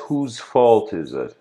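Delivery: slow, loud rhetorical question; retold call-out. Teacher asking the class, loud and slow. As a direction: call it out to the whole room. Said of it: "he says".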